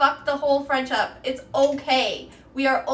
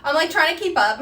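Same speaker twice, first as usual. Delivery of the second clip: laughing; 3 semitones higher, 5 dB louder, faster than usual. Real, not acted. Laughing while cooking live.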